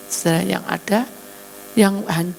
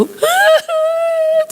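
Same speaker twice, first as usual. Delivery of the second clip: high loud wailing sob; loud high keening cry; acted wailing cry; 8 dB louder than usual. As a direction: wail out like a grieving mother. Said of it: "dia nangis sendiri".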